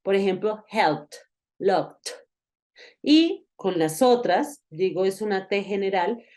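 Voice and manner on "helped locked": "helped" and "locked" as "helpt" and "lokt"; tap of T. Shown as a demonstration. Teacher gives examples of a T tap, crisp ending. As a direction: close "helped" and "locked" on a quick T. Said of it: "como un golpe de T".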